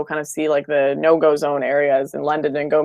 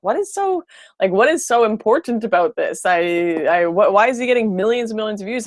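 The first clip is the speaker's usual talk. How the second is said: incredulous inner voice; 4 semitones higher than usual. Retold or imitated. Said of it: "I was like".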